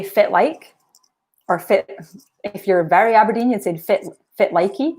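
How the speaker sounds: "fit like" said broad Aberdeen, F for the WH; Doric greeting. Shown as a demonstration. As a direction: say "fit likey" like a very Aberdeen local. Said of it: "here's an example".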